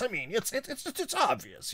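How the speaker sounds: mock-modest conspiracy host, leaping high at the end; Alex Jones. Host imitating Alex Jones on dark networks, humble bragging. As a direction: stammer up high as if it's no great feat. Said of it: "it's a humble brag about, like, revealing".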